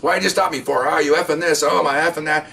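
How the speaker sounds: imitated angry yelling. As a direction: rant like a belligerent suspect, without full volume. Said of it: "immediately yelling and screaming at us".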